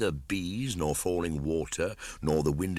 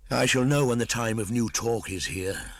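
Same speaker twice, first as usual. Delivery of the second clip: Mowgli sulking; 7 semitones higher, 4 dB louder than usual. A narrator's reading.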